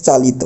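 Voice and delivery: চালিত as "chalito", ending on a clear o; correct final o. Shown as a demonstration. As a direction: finish চালিত with an o after the t. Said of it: "তখন আমাদের বলতে হবে চালিত". (চালিত শেষে ও-কার দিয়ে)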